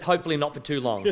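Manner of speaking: chuckling through the joke; laughing. Real, not acted. Agent joking about the visiting mother-in-law, laughing. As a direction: let a laugh break into the words.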